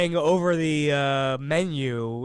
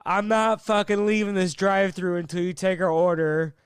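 mock angry yell; 3 semitones higher than usual. Customer refusing to leave the drive-thru, angry shout. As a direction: bark it back in defiance. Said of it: "he goes".

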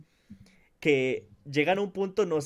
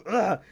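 mild grunt. Retold or imitated. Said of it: "suelta uno un".

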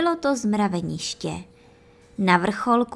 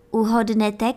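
usual speaking voice

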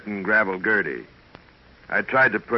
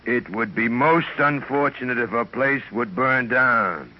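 slow menace; 2 semitones higher, slower than usual. Acted. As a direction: spell it out slowly, then hush the last words. Villain sets up the murder.

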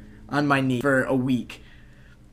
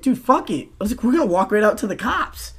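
excited; 6 semitones higher than usual. Retold or imitated. Rallying the group.

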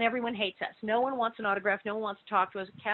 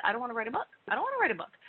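imitating Melissa Sue; 2 semitones higher, 4 dB quieter, much faster than usual. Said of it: "Melissa Sue said".

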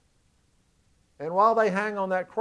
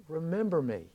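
humble plea; 3 semitones lower, 9 dB quieter than usual. Retold or imitated. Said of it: "I think in real humility".

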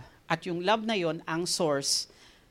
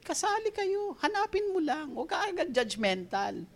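lightly raised, soft voice of the Lord; a hint of gentle correction; gently voicing the Lord; 7 semitones higher, 4 dB quieter than usual. God answering people who feel left out, mild gentle voice. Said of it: "sasabihin ng Lord".

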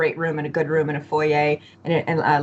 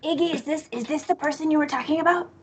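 in-character questioner; 8 semitones higher than usual. Acted. Player voices character questioning Iggy.

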